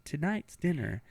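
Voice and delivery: soft, slow, whispered threat; menacing whisper. Retold or imitated. Mom serving her son the prank dinner, whispered. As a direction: breathe the words like a sinister reveal. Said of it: "and said".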